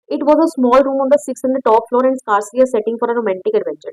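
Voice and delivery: reads the English line slowly and carefully; slow story reading. Acted. Teacher reading the story text aloud to students, slow and careful. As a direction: spell out the text slowly for the class.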